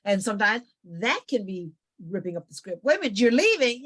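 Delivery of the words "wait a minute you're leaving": higher, louder startled question; surprised relative. Acted. Relative startled that the daughter is leaving, surprised. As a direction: caught off guard that she's going. Family surprised she walks out.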